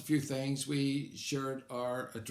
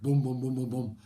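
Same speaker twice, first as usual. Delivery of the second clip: imitated gunshots; 7 dB louder than usual. Imitating gunshots heard in story.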